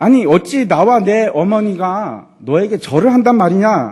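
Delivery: slow, loud, angry voice. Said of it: "하고 화를 내면서".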